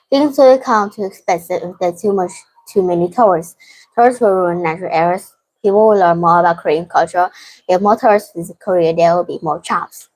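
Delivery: quick, rattled-off reading; hurrying through the sentences while dizzy; talking fast. Real, not acted. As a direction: read the answers briskly, without lingering. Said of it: "The reason I'm talking fast".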